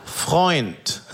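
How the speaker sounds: secretive mechanic. Retold or imitated. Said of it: "immer so zu sprechen, als ob alles ein krasses Geheimnis ist".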